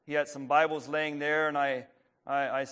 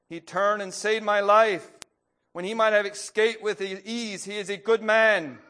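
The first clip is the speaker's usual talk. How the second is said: pleading; 6 semitones higher, 6 dB louder than usual. A narrator's reading. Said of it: "he pleaded".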